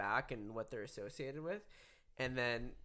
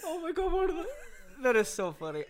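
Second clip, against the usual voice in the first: normal talking voice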